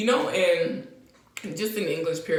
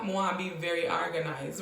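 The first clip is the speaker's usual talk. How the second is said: Jamaican patois. Shown as a demonstration. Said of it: "In patois".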